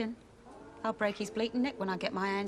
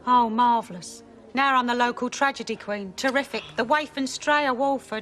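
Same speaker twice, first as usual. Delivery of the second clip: loud sarcastic self-mockery; bitter sarcasm; 2 semitones higher, 7 dB louder than usual. Angie mocking her own misery to her friend, loud and sarcastic. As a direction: spit it out, mocking herself.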